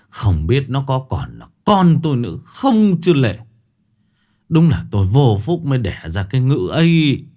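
a father fuming about his good-for-nothing son; angry father. Acted. Father slams chopsticks down and rails at his absent son, angrily.

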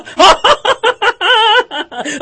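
loud joyful belly laugh; jolly old man's laugh; hearty laugh. Acted. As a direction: roar with delight. Scrooge laughing.

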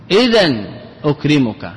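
إذا pronounced "idhan", ending in n; shortened tanween form. Shown as a demonstration. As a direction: close إذا on a nasal n before أكرمك. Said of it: "حذف الجملة من باب الاختصار". (إذًا بالتنوين)

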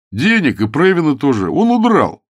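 desperate outburst; exclaimed. A narrator's reading. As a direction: voice leaps high and loud. Ukridge blurts the bad news.

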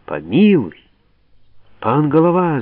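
громкая мольба, высоко на «Голова»; взмолись, кланяясь в ноги; мольба с криком. Acted. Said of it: "закричали некоторые". (десятские молят Голову: громко)

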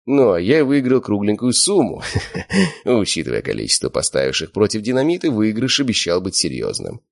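ordinary delivery, nothing marked

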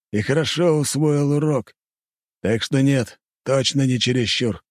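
firm warrior voice. Acted. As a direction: state it like a veteran. Warrior's grim answer.

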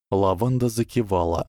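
ordinary delivery

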